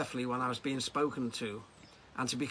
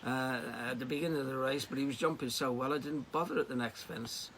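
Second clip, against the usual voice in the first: groggy; 2 semitones higher than usual. Retold or imitated. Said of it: "I said groggily".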